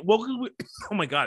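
coughing fit mid-sentence; choking on a cough. Real, not acted. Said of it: "I'm choking".

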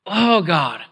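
drawn-out groaning "Oh, God"; acted groan. Believer worn down by life in general, pleading groan. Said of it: "If you haven't groaned".

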